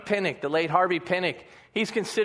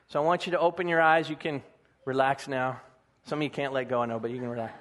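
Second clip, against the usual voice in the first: lower, gentle guiding voice; guided reflection; 3 semitones lower than usual. Real, not acted. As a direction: ease them into picturing the weight. Leads closed-eye reflection.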